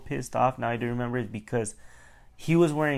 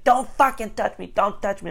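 high-pitched mock outrage; retold angry protest; 9 semitones higher than usual. Customer reacting to a tap from the clerk, high mock outrage. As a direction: act out an indignant customer.

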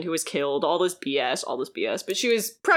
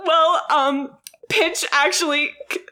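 high laughing babble, nearly cracking; retelling her boyfriend's awful lie, laughing high; laughing through the lie; 8 semitones higher, 5 dB louder than usual. Retold or imitated. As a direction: blurt the lie while cracking up. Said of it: "And he's like".

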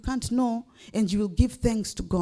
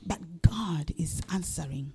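whisper; 3 semitones lower, 7 dB quieter than usual. Real, not acted. Preacher drops voice for emphasis.

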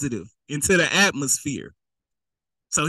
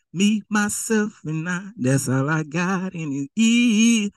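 slow, drawn-out smug boast; self-satisfied tone; slower than usual. Acted. Preacher repeating the rich fool's smug self-talk. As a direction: lean into it like you need nobody. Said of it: "That's your tone".

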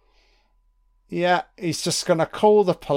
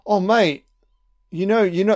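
higher, louder put-on smarmy voice; mocking Carter; 6 semitones higher, 6 dB louder than usual. Viewer mocks Carter getting thrown out, higher hammed-up voice. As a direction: ham up a slimy tenant. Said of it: "Carter's like".

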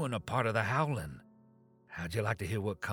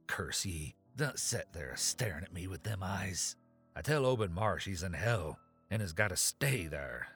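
put-on wild-eyed old man ranting; mad ranting. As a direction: rant it like a madman. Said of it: "Zadok was really screaming now".

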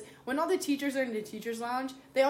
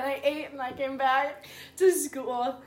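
laughing; 5 dB louder, slower than usual. Real, not acted. Laughing at own story.

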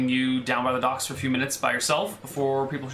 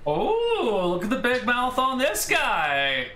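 much higher, slow, sneering taunt; mocking soldier; 9 semitones higher, slower than usual. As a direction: draw it out to belittle him. Soldier mocks the wizard.

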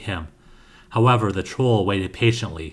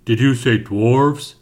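booming; 4 dB louder, slower than usual. A narrator's reading. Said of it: "a booming voice said".

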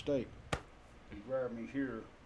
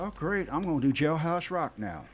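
laughing; 3 semitones higher, 5 dB louder than usual. Real, not acted. Joking punchline, laughs.

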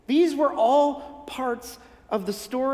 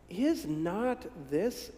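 snide aside; 11 dB quieter, much slower than usual. Acted. Quoted snide remark in crowd.

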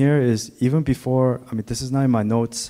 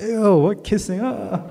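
squeamish listener; 10 semitones higher than usual. Retold or imitated. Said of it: "You'd be like".

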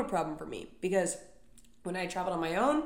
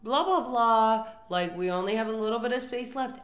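gate agent mimic; 3 semitones higher, 6 dB louder than usual. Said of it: "when the gate agent says".

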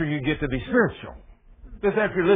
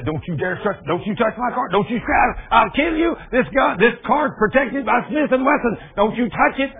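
angry car owner; 5 semitones higher than usual. Retold or imitated. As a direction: yell at them to keep off the car. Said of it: "I've had guys say".

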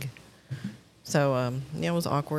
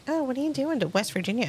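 put-on chatty old man voice; 8 semitones higher than usual. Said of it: "I'm like".

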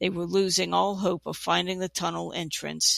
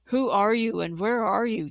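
calling out; 3 semitones higher than usual. A narrator's reading. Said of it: "Talon called out".

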